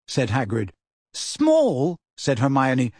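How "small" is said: high-pitched disbelief; incredulous. A narrator's reading. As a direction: echo it in shrill astonishment. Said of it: "with a kind of hysterical sarcasm".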